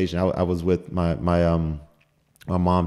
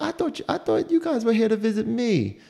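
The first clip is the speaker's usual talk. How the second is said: high, lightly voiced sweet old lady; a hint of a Southern old lady, pitched up; Texan old lady. Hospital neighbour teasing the visitors, high sweet old lady. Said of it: "she's like".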